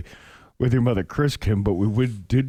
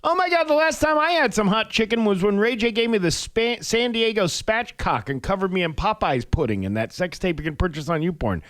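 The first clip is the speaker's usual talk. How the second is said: celebrity ex-wife impression; 9 semitones higher than usual. Celebrity comments on her ex's chicken business, high mock voice. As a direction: put on a much higher woman's voice. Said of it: "She said".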